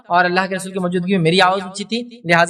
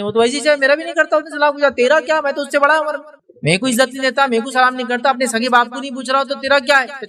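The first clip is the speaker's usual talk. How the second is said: pitched up, dismissive brushing off; defiant rude retort; 5 semitones higher than usual. Retold or imitated. Nephew snapping back at the mediator, defiant and raised. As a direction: scoff at the peacemaker, chin up.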